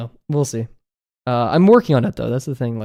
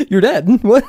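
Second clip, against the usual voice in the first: loud laughing outburst; 10 semitones higher, 7 dB louder than usual. Real, not acted.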